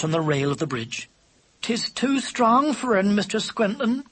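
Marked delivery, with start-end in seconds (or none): 1.6-4.0 high, slow cooed sympathy; cooing. A narrator's reading. Pigeon on the bridge rail consoles them, cooing. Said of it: "cooed Katy".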